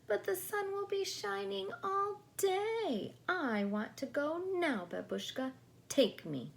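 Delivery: put-on high insistent child voice; whiny child. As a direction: nag grandma like a spoiled little girl. Natasha demanding to go now.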